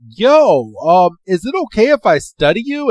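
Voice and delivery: a touch of excited scientist; eager request. Retold or imitated. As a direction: ask like an excited researcher. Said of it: "Freed runs over to Pikachu and is like".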